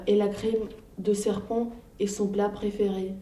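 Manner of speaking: lightly voiced small mouse, sly and teasing; a cheeky mouse scaring off a snake; clever little mouse. Mouse tells snake about gruffalo.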